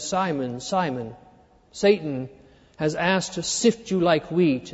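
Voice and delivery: soft, low, unhurried words of Jesus; solemn hushed quote. Acted. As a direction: say it gently and gravely, as a warning.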